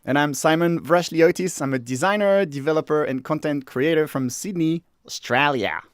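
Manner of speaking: steady host introduction; formal co-host intro; podcast intro read. Acted. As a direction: introduce yourself to listeners.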